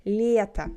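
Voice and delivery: Лето with a palatal L at the start; soft L. Shown as a demonstration. Teacher gives another example word, soft L. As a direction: begin Лето on a softened L. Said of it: "L is soft".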